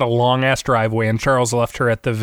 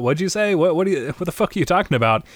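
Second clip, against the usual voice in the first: higher, incredulous questioning; light, pitched-up indignation; mock bafflement; 6 semitones higher, faster than usual. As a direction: act out confused disbelief. Acts Medea baffled by warning.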